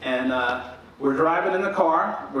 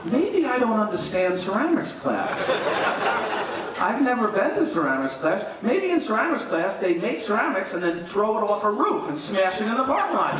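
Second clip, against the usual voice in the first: bewildered; 5 semitones higher than usual. Retold or imitated. Bewildered inner thought, rising.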